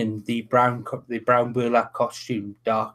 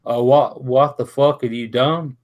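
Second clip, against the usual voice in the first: mock Irish accent; 4 dB louder than usual. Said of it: "No, that's Irish as well".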